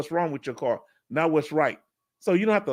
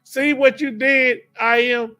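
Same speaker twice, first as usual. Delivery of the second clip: playful teasing; 7 semitones higher, 5 dB louder than usual. Real, not acted. Teasing chat for rattling a viewer.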